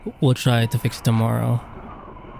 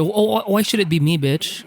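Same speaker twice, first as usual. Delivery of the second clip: whiny complaint; 7 semitones higher than usual. Real, not acted. Streamer told to go back outside, high mock-whiny protest. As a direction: moan at the unfairness in a high whine. Complaining about going out again.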